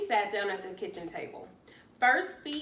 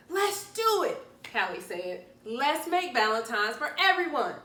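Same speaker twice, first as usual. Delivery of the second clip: excited agreement; 4 semitones higher, 6 dB louder than usual. Acted. Callie's eager reply.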